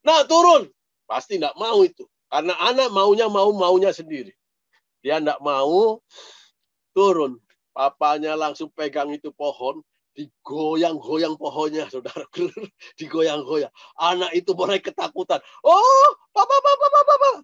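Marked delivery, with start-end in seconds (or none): 0.1-0.7 stern order. Retold or imitated. Father orders son down. 15.6-17.3 very high, loud frightened cries; a scared boy yelping for his father; boy clinging to the shaken tree, crying out high in fear; terrified child. Retold or imitated.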